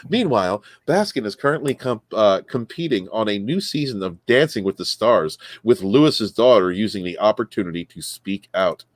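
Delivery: reading a news story aloud with punched key words. Acted. Host reading a missing-husband news story to co-hosts, newsreader delivery. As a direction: read the article out like a casual newscaster.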